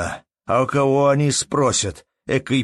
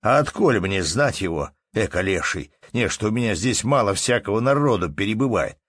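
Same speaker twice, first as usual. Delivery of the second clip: heated denial; 6 semitones higher, 5 dB louder than usual. Acted. Innkeeper deflecting blame, heated.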